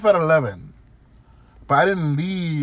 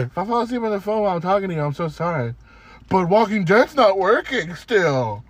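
mocking whiny customer; 2 semitones higher than usual. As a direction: drag it out like a lightly mocked tired customer. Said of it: "she told me that".

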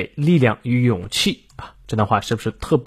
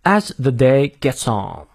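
slow, careful British English model; measured British accent for learners; British pronunciation; slower than usual. Shown as a demonstration. Teacher modelling the sentence ending, British pronunciation. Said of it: "我们来看一下英式发音".

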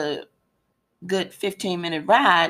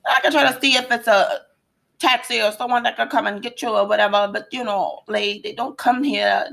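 put-on Jamaican accent; 3 semitones higher than usual. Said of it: "this is my Jamaican accent".

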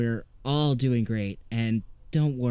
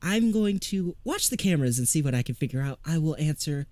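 flustered sarcasm; 5 semitones higher than usual. Acted. Flustered Woodrow answers.

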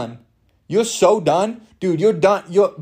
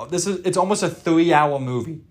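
voice cracking. Real, not acted. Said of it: "hear my voice crack just now".

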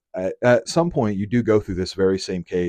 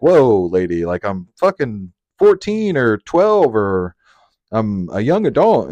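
louder, slowed, taken-aback "whoa, lady"; boy telling an odd mom to back off, shocked; startled protest; 6 dB louder, slower than usual. Retold or imitated. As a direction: back away from her, alarmed. Rebuffing a strange mom.

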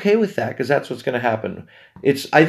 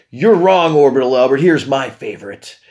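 mock listener complaint; 3 dB louder than usual. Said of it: "Just say".

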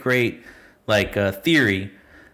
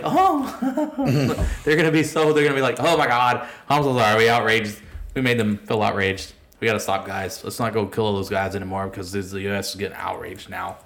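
sarcastic mock apology. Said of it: "And I was like".

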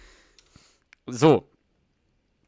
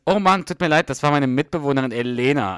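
1 boastful; 3 semitones higher, 8 dB louder than usual. Retold or imitated. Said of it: "wie der so angibt".

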